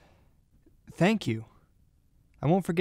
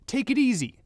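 usual speaking voice

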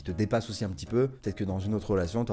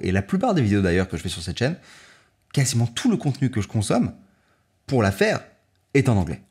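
upbeat, louder sponsor pitch to viewers; sponsor ad read; 6 dB louder than usual. Acted. YouTuber pitching the sponsor to viewers, upbeat ad read. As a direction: sell the language platform with a bright push.

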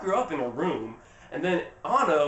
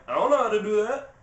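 higher, put-on voice of a flustered sister; mock helpless protest; 4 semitones higher, 4 dB louder than usual. Elsa answering her sister's demand, in a high mock-helpless protest. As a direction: protest helplessly with the pitch rising.

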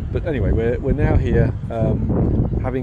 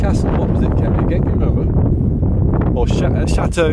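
loud, raised voice against the wind; shouting over wind; 6 semitones higher, 8 dB louder than usual. Real, not acted. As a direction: call out over a gusty wind. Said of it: "I hope you can hear me over the wind".

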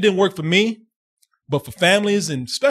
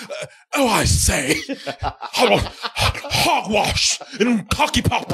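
hammed-up, stuffy British caricature; mock British accent; 2 semitones higher, much slower than usual. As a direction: go absurdly British, drawing words out slowly. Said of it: "they turned British".

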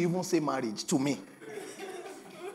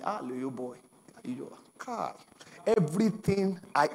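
ordinary delivery

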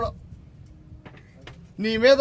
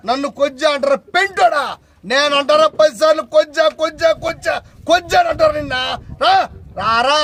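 outraged shout; 3 semitones higher than usual. Real, not acted. Leader furious at the rival's slur, outraged shout. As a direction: fling the insult back at him.

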